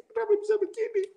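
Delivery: high-pitched weeping question; crying. Retold or imitated. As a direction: wail it as a retold lament. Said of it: "Sambil nangis gini".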